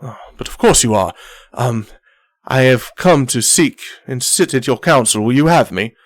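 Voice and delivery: lightly voiced courtly captain; a hint of formal, flowery petition; Captain Zardoz. Captain seeking counsel with the leader, lightly courtly. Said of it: "Zardoz, goes".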